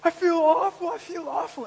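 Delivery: high-pitched guilty lament; mock misery. Preacher recalling his shame as first grader, mock misery. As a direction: act out a child's shame, lightly hammed-up. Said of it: "And I was going".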